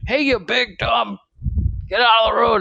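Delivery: high retold yell at the top of his lungs; mock yell. Retelling dad yelling at a driver, mock yell. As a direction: throw it out like dad yelling, but lighter. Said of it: "top of his lungs".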